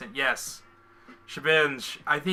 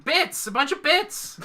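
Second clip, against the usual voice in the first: high, happy shouting; excited shout; 12 semitones higher, slower than usual. Real, not acted. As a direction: cheer it out. Reacting to donation.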